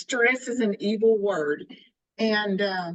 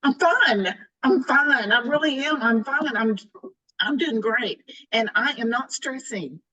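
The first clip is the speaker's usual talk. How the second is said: mock defensive insistence that nothing is wrong; defensive denial; 4 semitones higher than usual. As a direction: brush it off too brightly, protesting too much. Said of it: "And I'm thinking".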